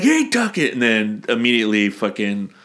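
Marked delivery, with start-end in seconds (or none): 0.0-0.7 high sly creature greeting; squeaky Gollum hello; mock Smeagol. Smeagol voiced in retelling.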